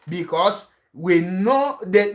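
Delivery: usual speaking voice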